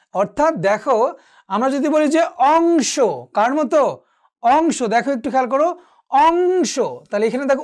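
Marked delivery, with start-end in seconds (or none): 2.4-3.0 অংশ with a held ng for ং; velar nasal ng. Shown as a demonstration. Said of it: "উঁর মতো". 4.4-4.8 অংশ with ং as a clear ng; velar nasal ng. Shown as a demonstration. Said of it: "উঁর মতো". 6.1-6.8 অংশ pitched higher, ng drawn out; velar nasal ng. Shown as a demonstration. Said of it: "উঁর মতো হয়েছে".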